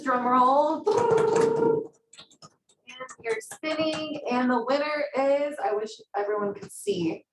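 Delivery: drumroll build-up, pitch jumping high; hyped giveaway announcement. Real, not acted. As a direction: hype up the prize spin like a host. Announcing giveaway winner spin.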